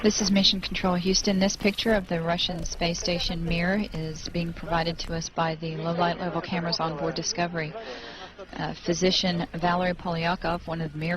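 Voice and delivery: steady official commentary voice; calm, measured broadcast narration; mission control announcer. Acted. NASA commentary over the feed.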